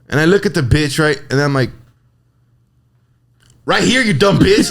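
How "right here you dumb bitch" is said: higher, exasperated mock snap; exasperated retort. Stocker answering a clueless customer, exasperated. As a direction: retell it as an irritated comeback.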